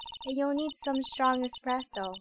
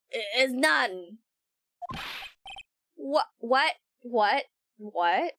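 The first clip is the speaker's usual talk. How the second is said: loud tough boss voice; 6 dB louder than usual. Acted.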